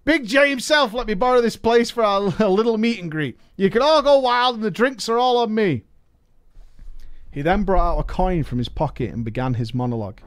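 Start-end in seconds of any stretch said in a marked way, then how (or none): 0.0-5.8 higher, showy goblin host; goblin accent. Acted. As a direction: greet them like a grand goblin showman, pitched up. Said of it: "I can't do a goblin accent".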